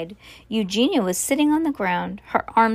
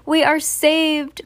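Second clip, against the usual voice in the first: high, slow, drawn-out exclamation; joyful cry; 6 semitones higher, 4 dB louder, slower than usual. A narrator's reading. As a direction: cry it out slowly in relief. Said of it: "cried Missus Watson".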